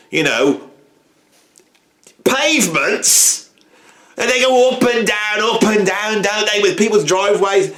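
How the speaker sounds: a hammed-up cranky bloke moaning about walkers and cyclists; grumpy ranting old man. Ranting character sketch.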